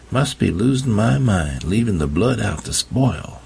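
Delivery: a fussy woman grumbling to herself; mild annoyed mutter. Acted. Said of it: "She muttered".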